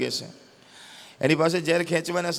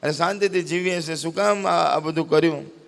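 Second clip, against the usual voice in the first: anguished plea to God; 3 semitones higher than usual. Acted. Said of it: "ઉપર જોઈને ભગવાનને કહેતો જાય છે".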